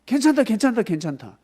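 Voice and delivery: loud, high careless brushing off; mock carefree. People before the flood, mocking carefree. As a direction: shrug off the warning loudly. People ignoring Noah's warning.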